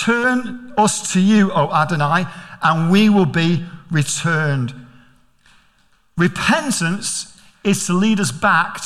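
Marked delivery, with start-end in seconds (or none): 0.0-4.7 slow, solemn recitation; solemn slow prayer reading; scripture reading. Acted. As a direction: read the verse slowly, reverent. Scripture read slowly.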